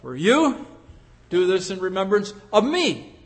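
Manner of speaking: "for you" and "of me" each set apart; stress on "for you" and "of me". Shown as a demonstration. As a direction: lean on "you" and on "me". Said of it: "the emphasis, if you like".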